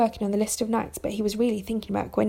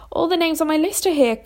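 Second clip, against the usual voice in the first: higher-pitched, delighted discovery; excited cry; 6 semitones higher than usual. A narrator's reading. Arthur finding his knights' names on the table, crying out. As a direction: exclaim it with lifted pitch. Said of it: "Arthur cried".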